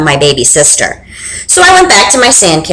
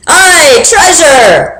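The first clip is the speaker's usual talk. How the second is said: mild crew yell; 6 semitones higher, much slower than usual. Acted. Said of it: "the crew yelled".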